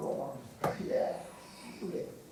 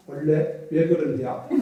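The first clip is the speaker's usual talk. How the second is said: put-on Chungcheong accent; 5 dB louder than usual. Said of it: "이 충청도 총각이 그 말을 듣고 뭐라 그런지".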